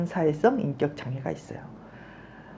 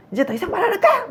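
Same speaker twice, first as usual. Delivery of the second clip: high, hammed-up angry outburst; lightly mimicked angry shout, much higher; mock yell; 11 semitones higher, faster than usual. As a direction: act out a petulant, high-pitched yell at a partner. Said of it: "막 그러고 소리 지르고".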